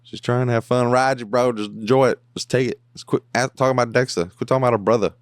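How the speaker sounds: venting at the TV, bro; fed-up fan yelling at a character; exasperated rant. Real, not acted. Ranting at Dexter on screen.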